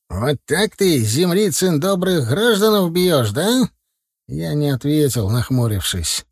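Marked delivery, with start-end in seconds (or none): 0.1-3.7 higher, rising shout with a slow middle; loud accusation. Acted. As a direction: shout it back from the truck to shame him. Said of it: "громко закричал".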